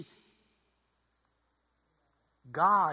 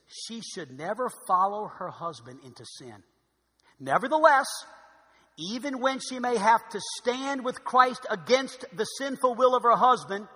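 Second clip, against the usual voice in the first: measured reading, growing louder and higher; slow, deliberate reading; 4 semitones higher, 7 dB louder than usual. Real, not acted. Preacher reading a John Piper quote to the congregation, slow and deliberate. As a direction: savour each phrase as you read. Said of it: "I'm reading this slow".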